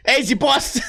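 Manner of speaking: put-on Jersey accent. Slot machine customer asking about the repairman's boss, Jersey accent. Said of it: "kinda like a Jersey accent".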